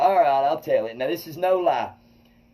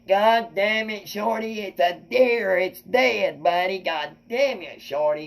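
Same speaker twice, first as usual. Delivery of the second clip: exasperated friend; 5 semitones higher, slower than usual. Retold or imitated. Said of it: "Wesley was like".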